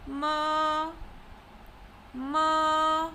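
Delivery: "ma" drawn out on a level pitch; high level tone on ma. Shown as a demonstration. Teacher leading practice, "ma" in first tone. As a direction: hold "ma" steady with no rise or fall. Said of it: "also known as the first tone".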